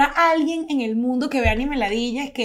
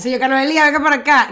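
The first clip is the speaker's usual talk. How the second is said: louder call, rising on Elías; 3 semitones higher, 4 dB louder, faster than usual. Acted. Mock nurse calling the old man back, raised call. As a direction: summon him across the room.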